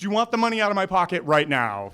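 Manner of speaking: a hammed-up, pushy accusation; mock demand. The Archers accusing the boys over the purse, mock angry. Couple demanding the money back.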